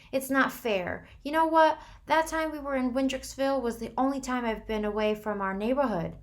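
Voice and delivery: high, loud anguished plea; desperate fear. A narrator's reading. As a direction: beg against dying. Dying boy's desperate plea.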